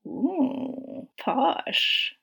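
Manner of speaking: playful rising "ooh", mock-impressed "posh"; teasing. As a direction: tease her about the fancy address. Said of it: "he teased".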